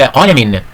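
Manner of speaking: "قلم" ending in a clear "-in"; kasratan ending. Shown as a demonstration. Teacher showing pupils tanween, "قلم" said slowly with -in. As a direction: sound the final n in "قلم", qalamin. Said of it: "تنوين بالكسر مثل".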